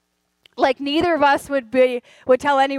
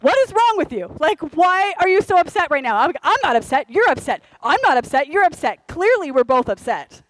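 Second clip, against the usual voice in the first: mock argument; 3 semitones higher than usual. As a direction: play both spouses snapping at each other. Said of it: "We're like".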